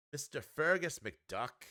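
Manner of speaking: slow, hammed-up Scottish accent on the name; a clumsy try at a Scottish accent; bad Scottish accent. Card reviewer introduces the Scottish duck, in a mock Scottish accent. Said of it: "I don't do a good Scottish accent".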